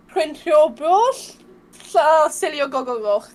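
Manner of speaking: "Crinio Bros" slowly, then on through "Silio Gogogoch"; struggling Welsh pronunciation. Shown as a demonstration. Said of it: "this is where I get a bit".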